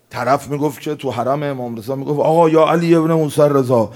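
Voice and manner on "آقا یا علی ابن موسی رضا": raised, higher, pushy bargaining voice; petulant pilgrim issuing an ultimatum; demanding pilgrim. Retold or imitated. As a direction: lay down terms to the saint, loud and insistent.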